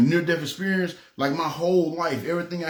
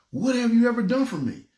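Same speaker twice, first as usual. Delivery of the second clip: high, pressing voice of God asking; God pressing him, pitched high; emphatic question; 8 semitones higher than usual. Retold or imitated. God's question, retold emphatically.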